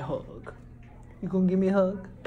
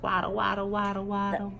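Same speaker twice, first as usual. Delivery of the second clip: penguin waddle; 3 semitones lower, 4 dB quieter, faster than usual. Shown as a demonstration. Acting out the penguin.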